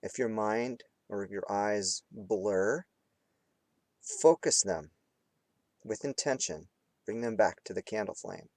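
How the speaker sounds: unhurried meditation guide with long pauses; guided meditation. Real, not acted. Teacher guiding students between hard focus and relaxing, guided meditation. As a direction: lead them through it phrase by phrase, leaving space. Leads candle flame meditation.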